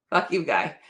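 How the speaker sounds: flat deadpan retort. Retold or imitated. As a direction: say it dead flat, no change. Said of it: "Doesn't change his tone".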